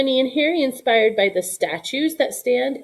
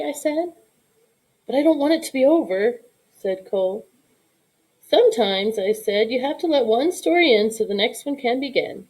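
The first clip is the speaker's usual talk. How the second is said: reading a picture book aloud to her son; story narration. A narrator's reading. Mother reading the bedtime story to her son, gentle storytelling.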